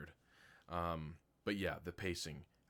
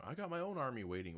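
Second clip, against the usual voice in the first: mock boast; 8 semitones higher, faster than usual. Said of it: "he's like".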